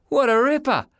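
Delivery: high-pitched yell of admiration; excited boy's yell. A narrator's reading. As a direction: cry out high, full of admiration. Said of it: "yelled Sean".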